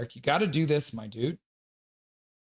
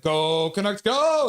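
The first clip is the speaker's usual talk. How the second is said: fan cheer; 4 semitones higher, 4 dB louder, much slower than usual. Retold or imitated. Streamer acting out chat, cheer ending in a shout. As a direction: chant ending in a high, loud go. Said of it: "Three Scorpions like".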